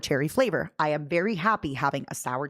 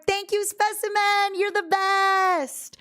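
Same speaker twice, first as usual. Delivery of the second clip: much higher, slow cutesy voice; squeaky thanks; 12 semitones higher, slower than usual. Real, not acted. Thanking Specimen in chat, high squeaky gushing. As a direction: gush your thanks in a tiny voice.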